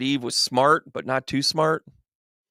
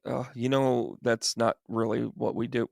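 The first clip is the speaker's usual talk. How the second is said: reluctant God; 3 semitones lower, 7 dB quieter than usual. Acted. God reluctantly lets Adam down.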